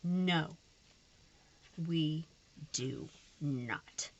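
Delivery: frustrated voice. Real, not acted. Vlogger answering her own question about the crooked sticker, frustrated. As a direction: bite it out, exasperated. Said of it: "my frustrated with situations voice".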